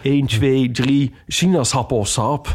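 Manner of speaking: slow microphone check, one two three; mic test voice. Retold or imitated. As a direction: test the mic like a theme park announcer. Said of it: "als test voor de microfoon".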